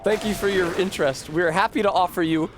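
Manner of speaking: livelier mock-pleasant letter reading; normal, not sad. Employer writing to an applicant with seemingly good news, not sad. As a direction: read it like welcome news. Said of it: "The first thing in the envelope is normal and not sad".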